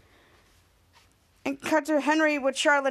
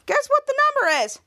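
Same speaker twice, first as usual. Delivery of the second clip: teasing question; 10 semitones higher, 4 dB louder than usual. Retold or imitated. Teacher quizzing Henry.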